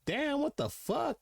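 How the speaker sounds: slow, high, drawn-out amazement; stunned disbelief. Retold or imitated. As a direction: let the shock stretch every word out. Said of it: "And I was like".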